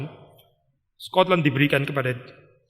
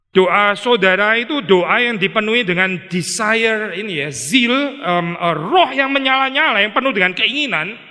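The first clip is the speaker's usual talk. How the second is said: fervent preaching; 4 semitones higher, 4 dB louder than usual. Real, not acted.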